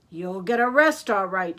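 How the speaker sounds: loud, forceful retort; shout. A narrator's reading. Mister Dart bursts in on the thieves, shouting. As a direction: call it out firmly at the crooks. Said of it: "shouted Mister Dart".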